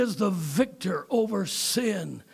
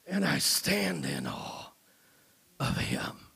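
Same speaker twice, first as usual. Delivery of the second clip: hushed awe; 5 dB quieter than usual. Real, not acted.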